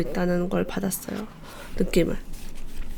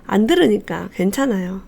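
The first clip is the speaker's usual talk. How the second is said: ordinary talk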